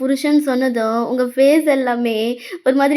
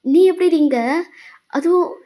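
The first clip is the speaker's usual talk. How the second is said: slow, stunned questions climbing higher; shocked; 3 semitones higher, slower than usual. Acted. Boyfriend startled by her sudden hug, shocked. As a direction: caught off guard, voice lifting in disbelief. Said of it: "அவன் shocked ஆயிட்டான்".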